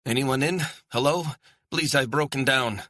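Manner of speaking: high, loud plea through a door; urgent shouting. A narrator's reading. Stranded woman taps at the window, urgent shouting. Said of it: "Her shouting was getting louder, more urgent".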